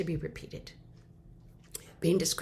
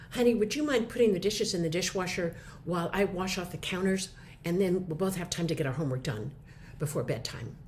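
sweet request. Shown as a demonstration. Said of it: "Can you hear the difference?".

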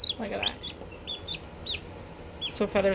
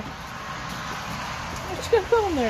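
slow whispery pet voice; 8 semitones higher, much slower than usual. Real, not acted. Baby talk to dog, slow.

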